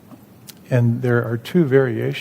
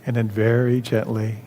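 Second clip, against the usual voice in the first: calm, measured instruction with long pauses; guided meditation. Real, not acted. Leads second guided exercise.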